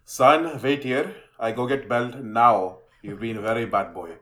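imitated immigrant dad, slow measured threat; stern dad. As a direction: play a dad slowly announcing punishment. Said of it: "my dad would be like".

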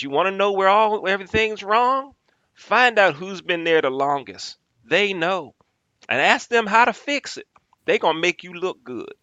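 high, loud put-on Southern voice giving advice; fake Southern accent. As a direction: play the folksy Southern chairman handing out wisdom. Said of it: "I'm gonna fake a Southern accent".

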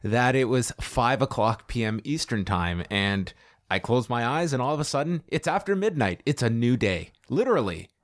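understated dry sarcasm; sarcastic. Real, not acted. Co-host claiming the long show just breezed by, sarcastic. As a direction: feign amazement at how time flew, drily. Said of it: "I sense some sarcasm in your voice".

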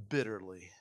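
a hushed unvoiced whisper. Preacher telling how Peter wept, whispering the word. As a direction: breathe the word out, barely voiced. Peter weeping after denial.

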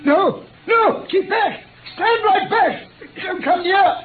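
high, loud, frantic warning; frantic shout. Acted. Sick detective to his doctor friend, shouting him away. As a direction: shout him back from the bed.

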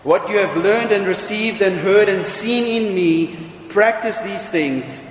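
measured, solemn reading of a Bible passage; scripture reading. Acted. Preacher reading Philippians to the congregation, solemn and measured.

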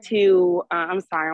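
winded from walking the dog; breathless, talking between breaths. Real, not acted. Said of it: "I'm out of breath".

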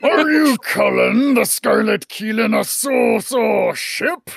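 pirate captain bristling at an insult; captain defending his ship's honour; offended pirate captain. Acted. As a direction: take offence like a proud captain.

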